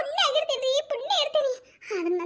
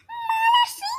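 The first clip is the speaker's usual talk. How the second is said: mock husband; 12 semitones higher, 4 dB louder, much slower than usual. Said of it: "ಅಂತಾರ".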